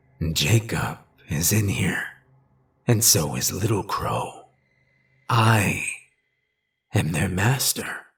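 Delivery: low, cracked voice coming from deep down. A narrator reads a creature answering the storyteller, in a low, cracked voice. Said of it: "a low, cracked voice".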